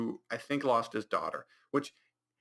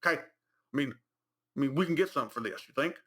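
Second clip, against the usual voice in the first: mocking the characters; 4 semitones higher than usual. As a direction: parody the overacted friends. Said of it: "They're like".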